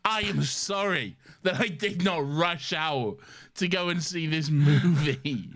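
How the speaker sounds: slow, exaggerated sarcastic apology. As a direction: drag it out in mock outrage.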